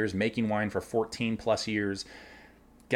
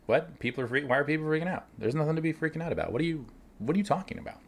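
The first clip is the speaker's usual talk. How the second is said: incredulous; 5 semitones higher, faster than usual. Retold or imitated. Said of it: "And I sat there and was like".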